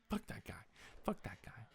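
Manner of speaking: whispered dismissal. Retold or imitated. She dismisses his friend to him, whispered. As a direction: breathe it under your breath. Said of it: "she's like".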